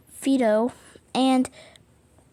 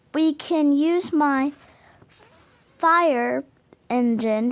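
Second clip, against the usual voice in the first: louder, bold offer; louder fireman voice; 3 semitones higher, 6 dB louder, slower than usual. A narrator's reading. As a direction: speak up proudly as the fireman doll. Fireman Doll speaks up.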